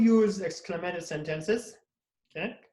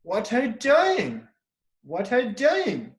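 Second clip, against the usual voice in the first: exclaimed question; 4 semitones higher than usual. Shown as a demonstration. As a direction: show strong feelings on "What are you doing?", falling hard on "doing". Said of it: "when you say this sentence like this".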